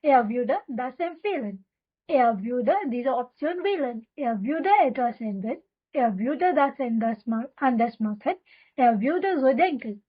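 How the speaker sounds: very slow, every syllable laid out for repeating; slow drill reading. Shown as a demonstration. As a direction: read it slowly so learners can echo you. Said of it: "तो चलिए er के साथ सबको बोलते हैं". (बहुत धीमे, साफ़ साफ़ दोहराने के लिए)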